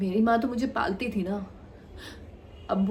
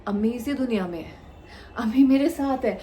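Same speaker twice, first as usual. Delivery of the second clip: raised, emphatic insistence; insistent denial; 3 semitones higher, 4 dB louder than usual. Acted. Daughter insisting her mother is still alive, emphatic and raised. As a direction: push back firmly, rising louder.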